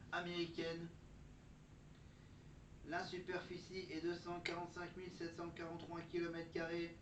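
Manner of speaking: steady ChatGPT robot voice. Pretend. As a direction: read it like an AI assistant. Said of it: "Je parle comme le fameux chat G P T".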